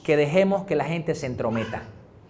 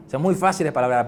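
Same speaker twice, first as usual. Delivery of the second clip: laughing; 3 semitones lower, 5 dB quieter, faster than usual. Real, not acted. Repeats line with a laugh.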